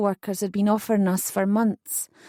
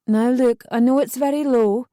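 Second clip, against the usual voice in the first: louder, firm counsellor; 3 semitones higher, 4 dB louder than usual. Acted. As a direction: take charge, firm but kind. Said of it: "she said firmly".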